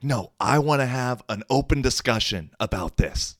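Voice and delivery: high, mild mock yell; retold yelling. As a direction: imitate her yelling without full volume. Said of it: "like, yelling".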